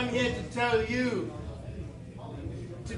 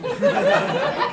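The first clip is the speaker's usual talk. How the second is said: high laughing squeal; 7 dB louder than usual. Acted. Elf character laughing.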